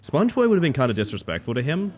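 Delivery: ordinary talk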